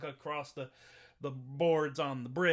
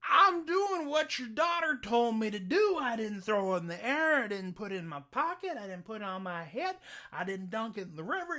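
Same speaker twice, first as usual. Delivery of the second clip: Jack explaining; 6 semitones higher, 4 dB louder than usual. Acted.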